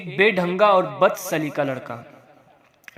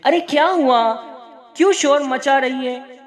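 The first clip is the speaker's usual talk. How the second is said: put-on a light old woman's voice, higher, grumbling from another room; grandmother calling from inside; 6 semitones higher than usual. Grandmother calling from the back room, irritated at the noise. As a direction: scold from the back room, annoyed at the racket. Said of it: "अम्मा अंदर कोठरी में से".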